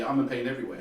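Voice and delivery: sarcastic. Retold or imitated. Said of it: "almost like sarcastically".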